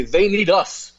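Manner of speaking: lightly voiced condescending elitist, slowing down; a hint of a snooty elitist talking down to voters; mock elitist voice. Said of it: "they say".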